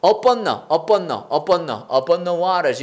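"upon the" run together, "the" nearly swallowed; slow linking demo of "upon the" as one word; linked words. Shown as a demonstration. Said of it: "다 붙이고".

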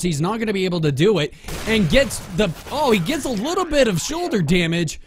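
play-by-play building from measured to excited; sports announcer. Pretend. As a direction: narrate the chase like a sportscaster. Resumes play-by-play commentary.

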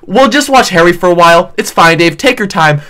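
lightly mocking, condescending reassurance; mock condescension. Mocking the commenter who put him second, condescending. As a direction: imitate a patronizing commenter. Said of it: "the most condescending thing".

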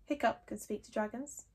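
softly from the crowd; very quietly. Acted. Fishlegs from the crowd, speaking very quietly. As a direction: say it under your breath. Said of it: "very quietly from the middle of the crowd".

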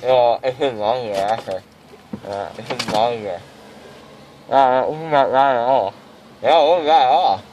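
numb mouth, slurring; mouth full of gauze. Real, not acted. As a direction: talk through swollen cheeks. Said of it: "Still a little loopy".

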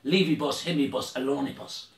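hammed-up broken-English hail. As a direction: call out in made-up broken English, then settle. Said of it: "that's the way he would have said it".

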